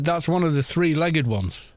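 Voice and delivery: lightly put-on American farmer; a hint of bad American twang; awful American accent. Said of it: "I'm doing, like, a awful American accent".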